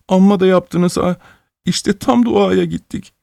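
put-on a boy shrugging off his injury; hurt child voice. A narrator's reading. Hurt boy to the crowd, high wincing child voice. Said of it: "suratını buruşturan çocuk mırıldıyor".

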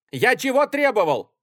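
high, loud demanding bark; тот же гневный крик; angry yell. Acted. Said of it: "кричал Гриценко".

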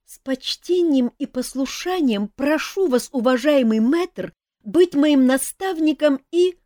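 formal plea. A narrator's reading. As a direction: recite the formula with reverence. Эльф произносит ритуальную просьбу. (торжественная просьба, медленно)

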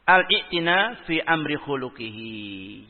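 the quoted Arabic phrase recited slowly and measured; slow Arabic recitation. Shown as a demonstration. Preacher reciting Ibn Qayyim's Arabic to the congregation, slow and measured. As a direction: draw out "al-i'tina" like reading from the kitab. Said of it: "beliau menyebutkan".

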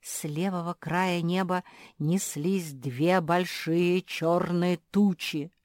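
ordinary delivery

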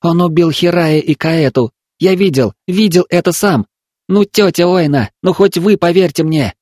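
put-on high, urgent pleading boy; desperate child plea. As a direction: beg her to believe you.

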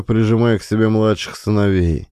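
plain reading voice

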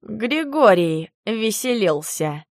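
slow, weary sigh through the words. Acted. Werewolf explains the mess to her, slow weary sigh. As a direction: let a tired sigh carry it slowly. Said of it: "вздохнул Эрдан".

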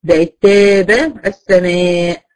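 تابة السماء drawn out slowly, both alifs thin and light. Shown as a demonstration. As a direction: demonstrate the thin alif in تابة السماء, slow and clear. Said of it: "مرققة".

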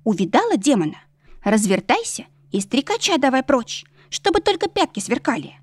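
high, folksy maid voice, lightly voiced; a simple village maid spilling gossip; gossiping servant girl. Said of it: "продолжила шептать служанка".

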